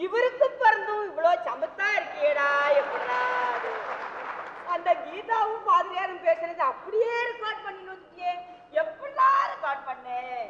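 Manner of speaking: laughing praise. Acted. Mother gushes over son, laughing.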